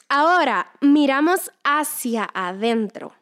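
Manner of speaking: slow, solemn scripture reading. Acted. Preacher reading Corinthians to her viewers, slow and solemn. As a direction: let each line of the verse land slowly. Reads scripture passage aloud.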